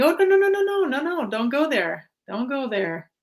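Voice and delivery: sharp high no no no, then firm; self-scolding no no no. Retold or imitated. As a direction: snap at yourself to stop. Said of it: "I snap, going".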